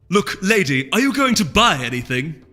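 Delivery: annoyed vendor. A narrator's reading. Market vendor fed up with Cranberry, annoyed snap. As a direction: lose patience with the customer. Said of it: "by now extremely annoyed".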